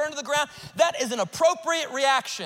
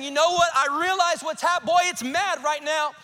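raised-pitch, insistent confession of hardship; emphatic admission; 4 semitones higher than usual. Acted. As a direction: pile up the hard truths with mounting urgency. Acts out faith admitting hardship.

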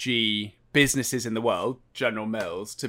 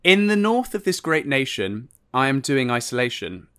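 poem reading. Retold or imitated. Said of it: "read out a poem".

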